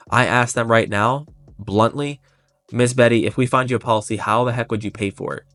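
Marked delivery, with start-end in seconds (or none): 2.7-5.4 kind but direct, agent to client; really kindly. Retold or imitated. Agent asking client how she'll pay, kindly. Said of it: "Really kindly".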